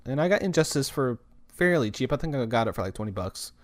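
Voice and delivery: talking through hiccups. Real, not acted. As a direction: speak between hiccups. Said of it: "I got the hiccups, and that's why I sound weird".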